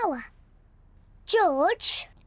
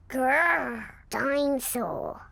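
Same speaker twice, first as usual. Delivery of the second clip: playful dinosaur growl; 3 semitones lower, slower than usual. Acted. Toddler shows off toy dinosaur.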